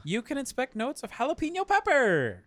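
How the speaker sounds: hammed-up description read. Real, not acted. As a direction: read the tasting notes with a high flourish. Reading beer description aloud, hammed up.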